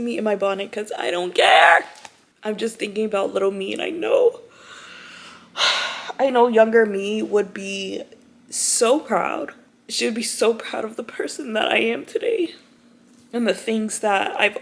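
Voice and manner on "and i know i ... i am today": choked-up and breathy, close to crying; tearful. Real, not acted. Vlogger telling viewers about her younger self, tearful. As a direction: speak through rising tears of pride. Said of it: "so emotional".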